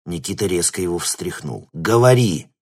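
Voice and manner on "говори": loud, commanding bark; demanding shout. Acted. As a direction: force the answer out of him. Nikita shakes the scientist.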